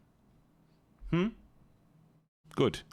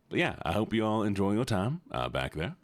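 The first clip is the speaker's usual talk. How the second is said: slipping into a Southern accent. Real, not acted. Streamer wishes chat a good time, accidental Southern accent. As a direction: drift into a light Southern twang. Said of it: "I immediately went Southern".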